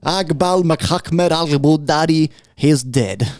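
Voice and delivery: lightly voiced Trump boasting; Trump impression. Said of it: "Trump comes out and goes".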